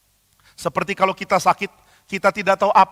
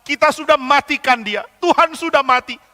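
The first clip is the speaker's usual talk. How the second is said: madman shouting; 7 semitones higher than usual. Acted. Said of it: "Lalu orang itu teriak".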